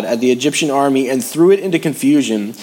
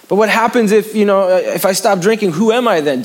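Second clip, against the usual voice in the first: much higher anxious questioning; higher, fretting what-if; worried drinker; 7 semitones higher than usual. Acted. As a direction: voice the fearful doubter. Voicing a worried believer.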